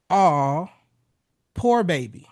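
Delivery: crooned sympathy with a drawn-out first word; a crooner. Shown as a demonstration. Husband soothing his upset wife, slow low-toned croon. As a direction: soothe in a low crooner's tone, pausing between phrases. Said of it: "drop your voice to a low tone".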